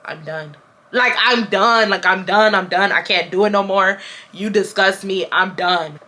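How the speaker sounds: understated, matter-of-fact finality; calm. Retold or imitated. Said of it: "I was so calm".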